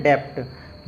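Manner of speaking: डेप्ट with an audible P before T; wrong pronunciation. Shown as a demonstration. Teacher repeats learners' misreading, डेप्ट with an extra consonant. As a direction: say डेप्ट as spelt, cluster intact. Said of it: "यदि आपको ये rule पता नहीं रहता".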